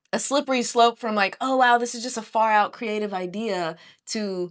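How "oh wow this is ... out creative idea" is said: ordinary delivery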